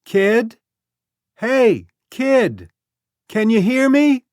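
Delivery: high, loud call across the road; shouting. A narrator's reading. Becky calls to the boy in the grass, shouting. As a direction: hands cupped, call out to the hidden kid. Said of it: "She cupped her hands to her mouth and shouted".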